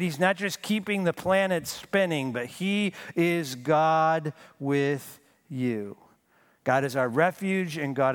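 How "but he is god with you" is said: slow, tender assurance. Acted. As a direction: comfort them with it. Slow intimate preaching line.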